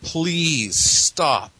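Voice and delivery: high, loud imitated scream; mock scream. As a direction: echo the ghost's pleading scream. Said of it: "and she screams".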